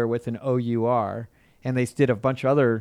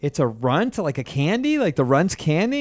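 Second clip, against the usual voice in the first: retold baffled questioning, rising higher; puzzled question; 4 semitones higher than usual. Confused surf teacher asking his pupil, puzzled. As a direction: ask as if you misheard. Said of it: "I was like".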